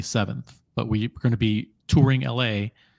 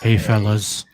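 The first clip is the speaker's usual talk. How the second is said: Lolex impression; 3 semitones lower, slower than usual. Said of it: "Lolex impression".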